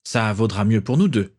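lightly hissed, lisping words; a hint of a hissing old man. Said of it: "d'une voix chuintante".

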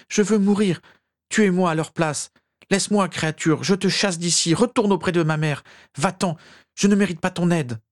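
very high, desperate wailing plea; sobbing. A narrator's reading. Tormented master sending his elf away, high sobbing plea. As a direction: plead in high acted sobs. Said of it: "sanglota Régulus".

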